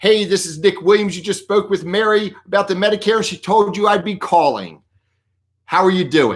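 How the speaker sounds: positive, confident, strong, upbeat voice. The speaker demonstrates how they opened telemarketing calls: strong, positive, upbeat voice. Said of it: "You need to have a strong, positive voice".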